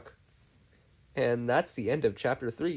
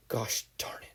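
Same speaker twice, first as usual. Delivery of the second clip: soft, breathy grumble under the breath; defeated mutter; 5 dB quieter than usual. Acted. Katsuki giving up on his conscience, muttered. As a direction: concede it quietly to yourself.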